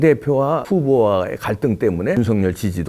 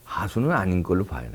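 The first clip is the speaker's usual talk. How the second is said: ordinary talk, nothing marked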